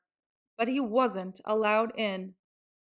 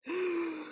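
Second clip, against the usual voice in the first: big inhale; 8 semitones higher, 6 dB quieter than usual. A narrator's reading. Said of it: "took an enormous breath".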